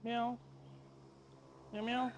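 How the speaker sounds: very high, soft kitten meows; tiny high cat mew. Pretend. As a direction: meow back at the kitten. Mewing back at the cat.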